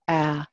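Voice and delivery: "Ah" as a short a, as in cat; short-a sound modelled for "Ah"; isolated vowel sound. Shown as a demonstration. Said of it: "Pronounce the vowel".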